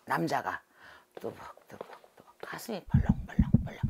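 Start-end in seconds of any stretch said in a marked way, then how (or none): 1.2-3.8 breathy whisper, slowing down; whispering the pounding heart; whispered suspense. Retold or imitated. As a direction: hush it like footsteps creeping closer. Hushed retelling of a tense moment.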